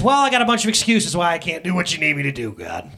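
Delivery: loud, blustery Chris Farley voice; Chris Farley impression. Pastor doing Chris Farley as Moses to God, loud and blustery. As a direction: puff up like Chris Farley making excuses. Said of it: "That's my Chris Farley impression".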